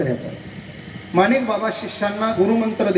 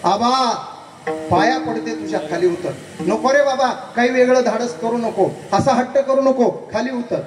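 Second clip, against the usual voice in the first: higher, begging mother's cry; pleading wail; 5 semitones higher than usual. Retold or imitated. Mother begs her son on the peak, a higher pleading wail. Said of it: "हंबरडा फोडला".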